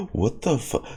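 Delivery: a laughing whispered gasp; breathless laugh. Real, not acted. Stunned by the teaser, breathless laughing whisper. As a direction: laugh it out under your breath.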